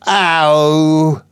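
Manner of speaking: high, loud Cockney "Ow!"; a pleased, surprised "Ow!" at the coin; delighted "Ow". Acted. Flower girl finding a half crown in her basket, surprised "Ow!". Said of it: "Picking up a couple of florins".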